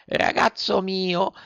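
the phlegmatic snail answers from the window; calm snail. A narrator's reading. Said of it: "tutta pace e tutta flemma". (lumaca tutta flemma)

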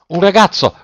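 high call, falling at the end; sailors' shout. A narrator's reading. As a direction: call out urgently for a passenger. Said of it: "gridarono i marinai".

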